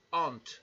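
slow "aunt" with the English vowel; aunt en inglés. Shown as a demonstration. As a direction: draw out "aunt" carefully. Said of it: "que es tía".

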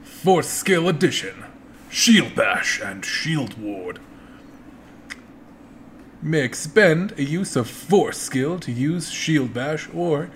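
slow, drawn-out hype announcer voice; lightly voiced announcer, stretching the words; fighting game announcer. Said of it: "your best announcer voice for the big boy".

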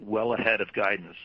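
ordinary delivery

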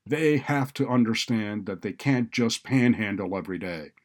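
loud, insistent scolding; exclaimed objection. A narrator's reading. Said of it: "exclaimed Doctor Green".

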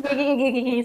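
quick laughing okays, pitched slightly up. Real, not acted. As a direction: giggle through a string of okays. Cracking up at co-hosts' antics.

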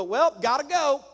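abrupt brush-off. Retold or imitated. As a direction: toss it off and leave. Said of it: "they go".

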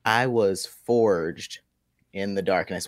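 slow, deliberate villain voice; Bane voice. Acted. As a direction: drag it out like Bane. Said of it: "Your, your glass is too small".

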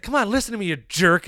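high, excited Mike Wazowski impression; playful mock Mike voice; quoting Mike. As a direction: squeak it up like the little monster. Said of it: "he's like".

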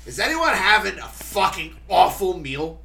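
put-on high, slow, indignant old-lady call; aunt's public outburst. Aunt standing up at dinner to poll everyone, high drawn-out indignation. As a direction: imitate a cranky aunt addressing the room. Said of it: "She stands up and goes".

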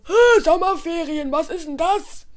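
puzzled protest, lightly voiced; a hint of outraged confusion; indignant. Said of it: "sagte Spike empört".

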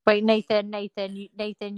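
choppy connection audio; stream quality dropping. Real, not acted. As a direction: call breaking up. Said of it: "you're breaking up a bit".

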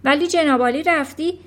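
loud, indignant wife's lecture; exasperated scolding. A narrator's reading. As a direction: berate your husband for his stupidity. Mother scolds foolish husband.

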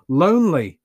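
sharp high yelp of disbelief. A narrator's reading. Anya yelping at her cheating partner, loud and high. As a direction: yelp it back at him, loud. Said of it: "Anya yelped".

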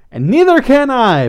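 high, loud determined exclamation; mild scream. A narrator's reading. Pepper rallies alongside Blythe, mild scream. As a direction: cry it out with rallying force. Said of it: "Pepper screamed".

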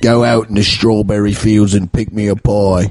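lightly put-on British voice; mock British accent. Host improvising nonsense in the style of a band, mock British accent. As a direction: order it as a Brit. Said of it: "do a British accent".

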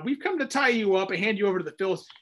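hurried, nervous delivery; scared. Shown as a demonstration. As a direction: rush it like frightened men. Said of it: "they're pretty scared".

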